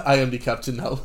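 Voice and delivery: mock Somali accent, proud captain. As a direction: put on a Somali accent and claim command. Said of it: "So you'll do a, a Somali accent".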